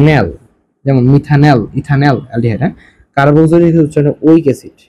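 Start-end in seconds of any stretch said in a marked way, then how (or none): 0.1-0.3 ন্যাল said as one short falling "nal"; teacher answers own question with ন্যাল; pronunciation demo. Shown as a demonstration. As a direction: give ন্যাল clearly as the aldehyde ending. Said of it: "কি হয়?".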